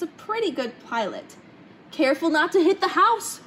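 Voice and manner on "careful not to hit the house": yell. A narrator's reading. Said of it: "Violet's father would yell".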